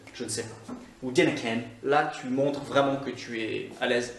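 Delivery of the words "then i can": Scottish "dinnae ken"; Scottish accent. Shown as a demonstration. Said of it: "l'accent écossais et les expressions". (accent écossais)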